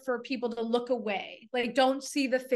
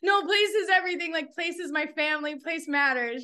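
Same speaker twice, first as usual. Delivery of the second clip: impassioned, half laughing; passionate outburst; 5 semitones higher than usual. Retold or imitated. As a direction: burst out like a fired-up professor. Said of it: "I get, like, real passionate".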